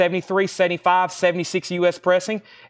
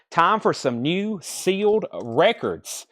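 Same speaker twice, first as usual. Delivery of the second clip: slow, breathless delivery; speaking while winded; out of breath; 4 semitones higher, slower than usual. Real, not acted. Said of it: "Whew, I'm out of breath".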